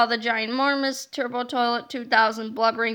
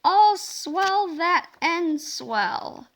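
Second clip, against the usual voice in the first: goofy hypnotized voice; 2 semitones higher, much slower than usual. Acted. Silly hypnotist-style greeting voices.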